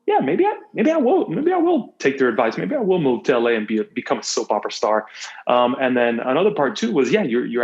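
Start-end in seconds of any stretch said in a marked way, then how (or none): 0.1-5.1 high, airy mock daydream, sliding back down; mock dreamy musing. Guest recalls deciding to try acting, dreamily mocking himself. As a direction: play along with the teasing dream of soap stardom. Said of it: "I was like".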